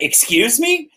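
high shocked "Excuse me?"; offended passenger. Retold or imitated. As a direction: lift the pitch in mock shock. Person offended by rude question.

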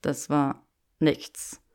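slow, low deflecting denial; evasive claim. Acted. Draco claiming it was nothing, slow and evasive. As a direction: brush it off slowly. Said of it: "behauptete er".

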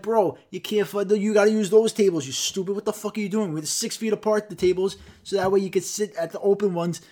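exasperated rant at a customer; exasperated scolding. Retold or imitated. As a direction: chew out a clueless customer.

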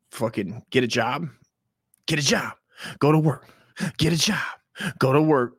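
mock lecture. Playing Uncle Dust telling people to get a job. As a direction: bark it like a blunt lecture. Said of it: "what would I be saying?".

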